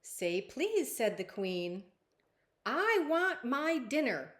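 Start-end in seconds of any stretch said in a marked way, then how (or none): 0.0-1.0 firm, slightly high command; a mother correcting manners; stern queen. Acted. Queen telling the princess to say please, firm. 2.6-4.3 loud, high, slow demand; sassy. Acted. Princess demanding dinner from the queen, loud and sassy. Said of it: "She sounds kind of sassy".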